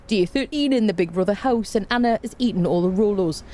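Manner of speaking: put-on a playful go at a Northeast English accent. Streamer imitates the Big Brother house announcer, light Northeast accent. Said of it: "How was my Northeast accent?".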